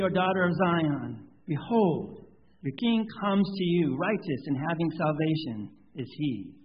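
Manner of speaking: measured, solemn pastor reading the liturgy; liturgical reading. Acted. Pastor to congregation, solemn liturgical voice. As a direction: pronounce absolution and prayer to the congregation.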